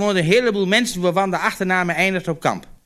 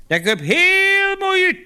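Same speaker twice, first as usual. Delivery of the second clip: drawn-out delight; 12 semitones higher, 3 dB louder, slower than usual. Retold or imitated. Farmhand's quoted reply.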